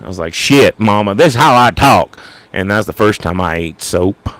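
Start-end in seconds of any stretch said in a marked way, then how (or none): 0.3-2.2 mock protest in a Southern accent; Mississippi accent. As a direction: talk back to mama in a Southern accent. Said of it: "I'd start talking like that".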